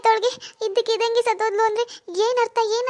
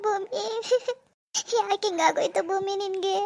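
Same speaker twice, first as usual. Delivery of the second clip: crying; slower than usual. Acted. Mourning murdered friend Bhoomi.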